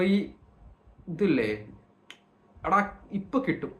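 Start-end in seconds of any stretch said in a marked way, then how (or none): 2.7-3.7 brisk, higher ഇപ്പൊ കിട്ടും; ഇപ്പൊ കിട്ടും as a raised-pitch warning; change of tone. Shown as a demonstration. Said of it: "ഈ tone മാറിയ".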